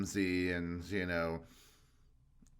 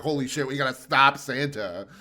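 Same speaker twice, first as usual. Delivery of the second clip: put-on alarmed kids; 4 semitones higher, 9 dB louder than usual. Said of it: "they're like".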